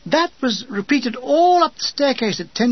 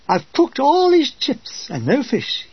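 higher, slow, lightly put-on woman's voice; a man doing a slow, higher woman's voice; female voice; 6 semitones higher, slower than usual. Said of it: "said Dean in a female voice".

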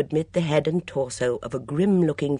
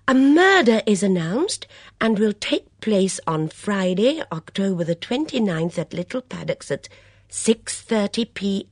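louder, slow, weighty reading; dramatic read; 8 semitones higher, 5 dB louder than usual. Acted. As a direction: read it out with relish. Reads murder notice dramatically.

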